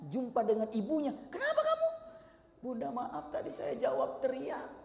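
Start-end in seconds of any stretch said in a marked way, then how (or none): 1.3-1.9 very high-pitched question; concerned mother. Acted. Mother questioning her weeping son, high-voiced. 2.6-4.7 slow, soft, high-voiced confession; remorseful apology. Son apologizing for shouting at mother, remorsefully.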